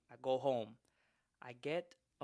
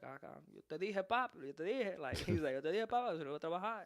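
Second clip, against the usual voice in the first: Spanish-speaking mechanic; 3 semitones higher, 4 dB quieter than usual. Retold or imitated.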